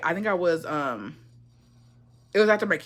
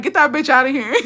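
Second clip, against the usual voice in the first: higher, louder, laughing through the quote; laughing mock order; 6 semitones higher, 5 dB louder than usual. Club staff throwing out the troublemaker, imitated through laughter. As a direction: imitate a kick-out order while cracking up.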